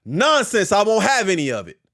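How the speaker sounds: lightly voiced mom putting a foot down; a touch of motherly indignation; scolding mom. Mom talking to you, won't have any of it, mildly scolding. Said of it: "That's like your mom talking to you".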